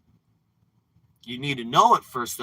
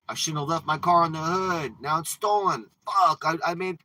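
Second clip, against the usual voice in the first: frustrated self-blame; 4 semitones higher than usual. Retold or imitated. Voicing yourself after the car is stolen, frustrated. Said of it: "you're accusing yourself there".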